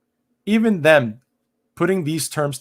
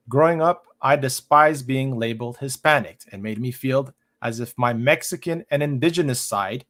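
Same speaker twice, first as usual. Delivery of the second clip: deliberate, emphatic read-aloud. Real, not acted. Streamer reads an article on the word Hispanic, reading aloud.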